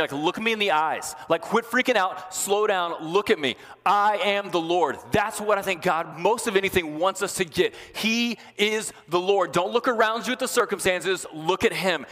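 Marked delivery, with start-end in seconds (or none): 0.1-5.0 higher, urging someone to calm down; urgent calming. Retold or imitated. God gripping a panicking person, urgently steadying. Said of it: "like when you kind of grab somebody". 7.9-9.5 slow, high proclamation; emphatic. Real, not acted. Preacher insisting to the congregation, slow and high.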